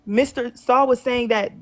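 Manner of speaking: carefully re-saying it for listeners. Real, not acted. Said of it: "Yeah, you sound muffled".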